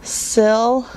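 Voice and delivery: SYL- held out on its own; Syl- as a separate, deliberate chunk; broken into syllables. Shown as a demonstration. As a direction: sound out just the first syllable, Syl-. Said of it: "I'm gonna show you an example".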